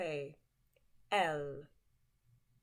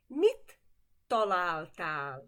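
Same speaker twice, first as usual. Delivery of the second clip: model question; 5 dB louder than usual. Shown as a demonstration. Teacher modeling a Hungarian question. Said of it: "What did you find?".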